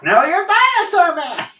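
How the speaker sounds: high, loud drawn-out cry; dinosaur man voice. Acted. Man spotting Sam Neill in any film, high loud shout. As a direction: belt it out high and stretched. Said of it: "You doing that voice?".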